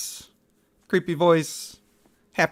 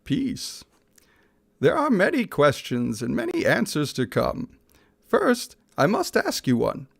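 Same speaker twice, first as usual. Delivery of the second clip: a rapper's voice; 4 semitones higher than usual. Acted. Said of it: "Snoop Dogg voice".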